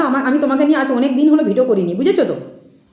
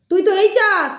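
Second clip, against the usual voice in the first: mildly higher-pitched mock scolding; imitated goddess medium; 4 semitones higher, slower than usual. Critic quoting the medium's rebuke back at her, lightly mocking imitation. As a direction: mimic the medium's chiding, lightly put on. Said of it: "বলেছিলে কি না?".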